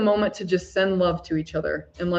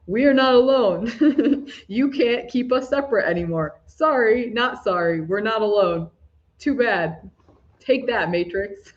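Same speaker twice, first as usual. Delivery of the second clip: playful defiance; 3 semitones higher than usual. Pretend. To the false matrix, giving it the double middle finger, cheeky taunting. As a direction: tease the false matrix with a grin. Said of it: "let's imagine we're giving the middle fingers".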